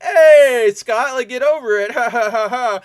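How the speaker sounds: high, loud taunting impression of the professor; mocking professor. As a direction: sneer at Scott, then fake a laugh. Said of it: "and he's like".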